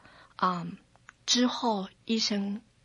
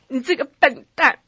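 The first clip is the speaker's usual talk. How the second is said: devil's taunt; 3 semitones higher, 7 dB louder than usual. Retold or imitated. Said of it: "他告诉我说".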